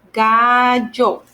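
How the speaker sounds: "Gallo" with the double L said as y, "gayo"; gallo with y sound. Shown as a demonstration. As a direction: stress the GA, then a y sound. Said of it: "similar to the Y sound in English".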